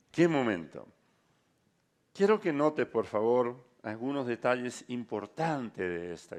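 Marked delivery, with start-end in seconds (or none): 0.1-0.9 emphatic, stronger exclamation of wonder; louder awed repeat. Real, not acted. Preacher marvels at the story, louder and moved.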